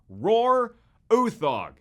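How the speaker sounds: loud, high, drawn-out name reveal; grand announcement. Real, not acted. Host revealing the director's name, grand excited announcement. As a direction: belt out the name slowly and proudly.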